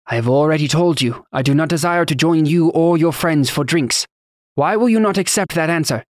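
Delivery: put-on thick Taconi accent. A narrator's reading. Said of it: "in his thick accent".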